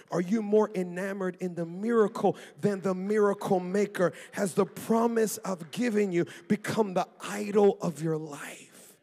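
booming, driving the question home; full-voiced pulpit challenge; preaching at full force. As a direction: thunder God's question at the crowd.

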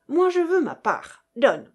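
loud, insistent demand for a share; forceful demand. A narrator's reading. Russian demanding his share of pearls, insistent. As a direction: push hard for what is owed. Quarrel over dividing the pearls.

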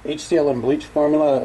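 muffled behind a gas mask; through a gas mask. Real, not acted. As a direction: talk through a respirator. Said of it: "put on my, my gas mask".

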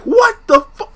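high squeak of shock, cut off mid-curse; squeaky cut-off curse; shocked gasp. Retold or imitated. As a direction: yelp it like you can't believe your eyes. Shocked at robe reveal.

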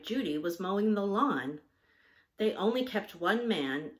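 measured storybook reading; story narration. A narrator's reading. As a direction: read the story aloud in clear phrases. Reads a story aloud.

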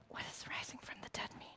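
breathless whispered question, fast; whispering. A narrator's reading. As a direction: hush it like a secret doubt.

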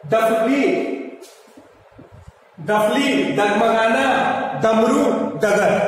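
डफली and डमरू with a hard retroflex ड; model words with ड. Shown as a demonstration. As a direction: clear teacher demo of ड. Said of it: "जो सामान्य ड है". (सामान्य ड के शब्द)

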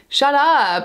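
half-voiced scream of annoyance; retold screaming. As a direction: snap it as an imitated outburst, not full volume. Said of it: "that's what I was screaming at her".

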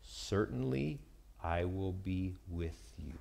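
soft, slow, tender reassurance; God quietly reassuring Moses; God's gentle promise. Retold or imitated. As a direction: hush it as a comforting promise. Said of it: "He says this".

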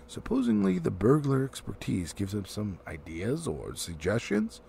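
a touch of mock courtesy; sweetly sarcastic, lightly; mock politeness. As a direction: Thorin teasing Bilbo with mild mock politeness. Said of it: "with mock politeness".

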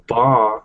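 ba with a soft b at the start; isolated ba showing the soft consonant; soft B sound. Shown as a demonstration. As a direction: say ba on its own with a soft b. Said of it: "is the soft sound".

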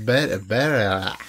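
giggling through the words; laughing while trying to speak. Real, not acted.

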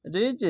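high-pitched রিজ with a rebounding close; qalqalah bounce. Shown as a demonstration. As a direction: raise রিজ, then let the j bounce off. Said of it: "এটা নিচে sound আসবে".

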